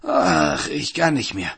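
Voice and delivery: lamenting with a burning throat; wailing miser. Acted. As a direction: beg him to stop, whining.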